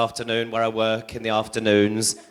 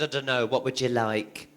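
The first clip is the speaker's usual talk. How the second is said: softer, gentle mum voice; soft mother; 2 semitones lower, 8 dB quieter than usual. Retold or imitated. Mother answers her son about his birthday: soft, gentle. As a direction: answer the little boy softly.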